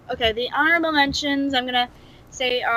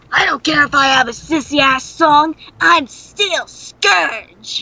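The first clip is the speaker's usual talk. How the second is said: mock villain boast; 3 semitones higher, 6 dB louder, slower than usual. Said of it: "Yeah, like".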